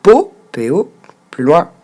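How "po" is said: "po" as a French open-ended o; wrongly split syllable. Shown as a demonstration. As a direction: say "po" alone, as French learners split it. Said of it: "vous ne découpez pas le mot comme il faut".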